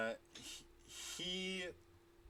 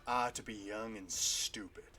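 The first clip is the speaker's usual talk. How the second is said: menacing warhammer man; 4 semitones lower than usual. Acted. GM voices warhammer figure.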